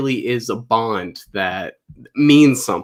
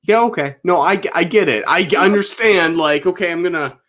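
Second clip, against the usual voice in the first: higher-pitched, hurried-along placating quote; imagined placating actor; 5 semitones higher than usual. Retold or imitated. Actor excusing himself from fans' drama, imitated placating. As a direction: lightly act humoring someone before backing away.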